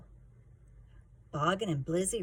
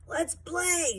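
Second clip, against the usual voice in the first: higher mock shout of a bully; 11 semitones higher, 3 dB louder than usual. A narrator's reading. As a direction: call it out cocky and higher. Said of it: "Sleater shouted".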